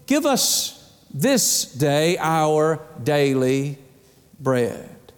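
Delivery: "this day our daily" drawn out slowly, with pauses; emphatic phrasing. Shown as a demonstration. Preacher stressing the Lord's Prayer to the congregation, slow emphasis. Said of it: "that's an important emphasis".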